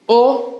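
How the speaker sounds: "ओ" held as a long vowel. Shown as a demonstration. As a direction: draw out the "ओ". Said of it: "long sound होता है". ("ओ" की लंबी आवाज़)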